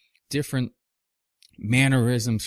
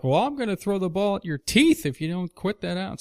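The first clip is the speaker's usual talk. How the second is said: much higher, hammed-up cranky threat; threatening old man; 9 semitones higher than usual. Grandfather warns the boy about the ball, mock cranky threat. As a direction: play a fed-up old man warning the kid. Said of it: "He's like".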